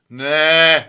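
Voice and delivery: loud, gruff, curt no; growled no. A narrator's reading. Alfred turning down Siggi's idea, a gruff loud no. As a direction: bark the no at him. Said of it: "knurrt Alfred".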